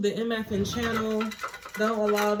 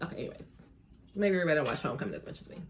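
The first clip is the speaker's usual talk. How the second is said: normal talking voice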